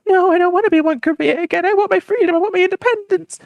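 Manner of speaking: high-pitched, loud mock plea; high, impassioned cartoon defiance; indignant protest. South Korea pleads for independence.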